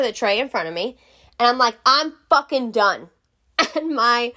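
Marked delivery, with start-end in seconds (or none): 1.9-3.1 higher, slow, fed-up outburst; mildly acted angry declaration; retold fury. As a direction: imitate being furious and finished.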